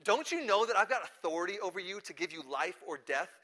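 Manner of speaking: mildly exasperated, insistent question. Retold or imitated. Pilate warns Jesus of his power, exasperated. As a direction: pull rank with rising impatience. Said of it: "And Pilate is exasperated, and he says".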